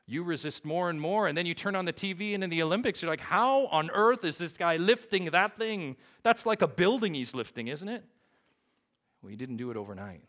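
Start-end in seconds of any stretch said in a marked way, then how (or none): 0.1-8.0 loud, high-pitched incredulous exclamation; amazed outburst. Acted. Preacher acting a viewer amazed by an Olympic lifter, incredulous shout. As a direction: shout it high, stunned at the sight.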